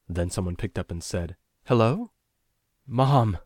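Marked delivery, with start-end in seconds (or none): 1.6-2.1 mother answering phone. A narrator's reading. 2.8-3.4 high, louder outburst of relief; relieved. A narrator's reading. Lost caller hearing mother answer, relieved cry. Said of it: "Relief flooded through me".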